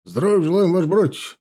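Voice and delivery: loud, high parade response; ringing military salute in words; roared troop reply. A narrator's reading. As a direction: answer the officer as a whole rank of soldiers. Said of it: "рявкнула дюжина глоток".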